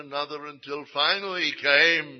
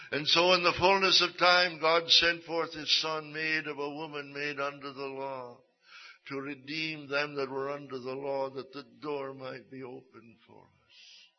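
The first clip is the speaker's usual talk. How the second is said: preaching, fading. Acted. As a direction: start with conviction and let it settle. Returns to preaching after story.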